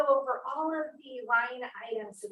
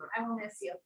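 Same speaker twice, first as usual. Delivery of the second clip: choked up. Real, not acted. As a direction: let the goodbye break into a sob. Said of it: "I'm being so emotional".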